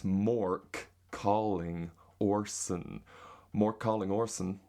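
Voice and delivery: slow demonstration in an American accent. Shown as a demonstration. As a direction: lay out the American r's carefully. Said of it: "in an American accent".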